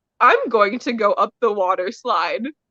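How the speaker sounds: usual speaking voice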